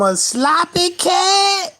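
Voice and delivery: sloppy cat voice. Shown as a demonstration. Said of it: "a big sloppy voice".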